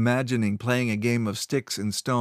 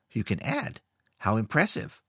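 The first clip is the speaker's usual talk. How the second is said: snarled. Acted. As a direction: sneer it sarcastically. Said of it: "Funglas snarled".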